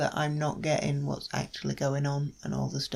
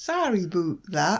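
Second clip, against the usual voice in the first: loud put-on Canadian accent; 4 semitones higher, 6 dB louder than usual. Joking with the other speaker, in your best Canadian accent impression. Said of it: "that was my best Canadian accent".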